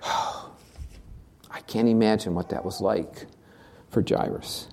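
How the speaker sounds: soft and slow, almost breathless; hushed, near whisper. Real, not acted. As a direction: let it fall to a whisper in awe. Preacher reflects on grief.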